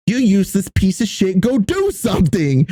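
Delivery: high, heated insult at a teammate; mock gamer rage. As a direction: snap it like a raging gamer. Yelling at teammate in game.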